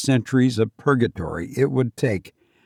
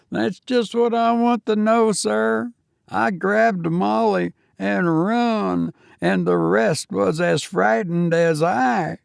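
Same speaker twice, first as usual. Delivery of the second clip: higher, eager Cockney lad, respectful; a nervous young servant answering his master; 9 semitones higher than usual. Acted. Thomas explains.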